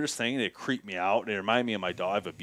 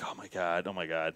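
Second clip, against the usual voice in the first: hushed fear; 5 semitones lower, 8 dB quieter than usual. Retold or imitated. Bear staring at him.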